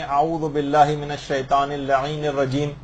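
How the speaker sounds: slow, careful Arabic recitation with اللعین added. Shown as a demonstration. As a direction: recite اعوذ باللہ من الشیطان اللعین الرجیم word by word, unhurried. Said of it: "اگر ہم لعین کا اضافہ کر لیں". (آہستہ اور ٹھہر ٹھہر کر تلاوت)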